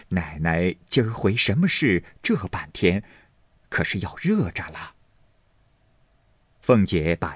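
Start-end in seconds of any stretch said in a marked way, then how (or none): 0.0-4.9 light laugh, then an easy chatty question. Acted. Servant women greeting their mistress, laughing. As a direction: chuckle first, then ask lightly. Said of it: "都笑道".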